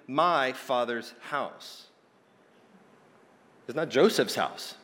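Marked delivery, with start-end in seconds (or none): 0.1-1.9 slow, with the stress on "my"; "my" stressed and drawn out; emphatic MY. Retold or imitated. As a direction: lean on "my" in "my Father's house". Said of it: "and it's emphatic".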